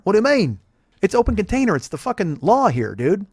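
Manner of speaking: put-on Australian accent.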